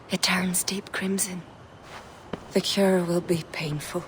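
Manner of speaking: whispered warning over the potion; hushed whisper. Acted. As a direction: drop to a whisper, solemn. Druid watches amber change.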